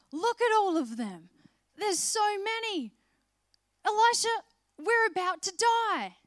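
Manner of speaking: a frightened servant who thinks he'll die; panicked. Retold or imitated. Terrified servant pleads with Elisha.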